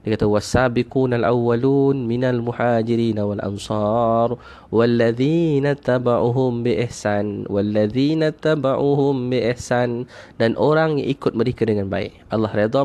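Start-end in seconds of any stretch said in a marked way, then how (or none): 0.3-10.1 slow, drawn-out Arabic recitation; Quran recitation. Real, not acted. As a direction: recite the verse slowly, stretching the long vowels.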